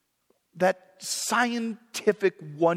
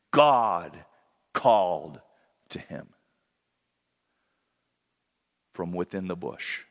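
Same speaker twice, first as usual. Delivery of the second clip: playfully deep divine voice; 13 semitones lower than usual. Pretend. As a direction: speak from deep in the chest like a voice from the bush. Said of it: "with my nice deep voice tonight".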